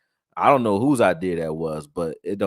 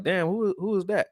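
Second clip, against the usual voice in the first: retold amazement, pitched much higher; impressed surprise; 11 semitones higher than usual. Recalling his reaction to the plays, high-pitched surprise. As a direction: recreate being wowed, voice jumping up.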